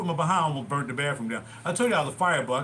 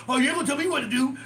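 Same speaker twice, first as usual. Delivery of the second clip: mock sassy comeback; 9 semitones higher than usual. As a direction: throw it back at him like a cheeky teen. Mock talking back to dad.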